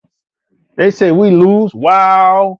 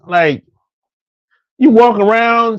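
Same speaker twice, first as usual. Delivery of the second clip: ordinary talk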